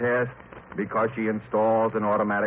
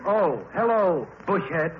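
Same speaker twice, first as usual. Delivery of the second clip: teasing laugh; 6 semitones higher than usual. Acted. Husband teasing wife.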